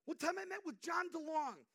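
loud, high preaching voice; a fired-up preacher's loud story; preaching shout. Acted. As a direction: preach it full force. Preaching at full force.

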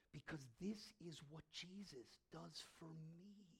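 hushed intimate whisper. Real, not acted. Preacher to congregation about Jesus, whispered. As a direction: breathe it out softly.

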